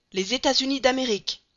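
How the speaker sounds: high, loud exclamation of sudden hope; excited cry. Acted. Passepartout seeing the poster, excited cry. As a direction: burst out as if you found the answer. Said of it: "s'écria Passepartout".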